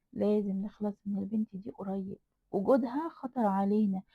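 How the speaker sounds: ordinary delivery, nothing marked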